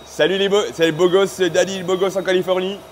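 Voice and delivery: bouncy vlogger greeting; wild unhinged ranting. Retold or imitated. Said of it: "Il fait comme ça". (intro de youtubeur survolté)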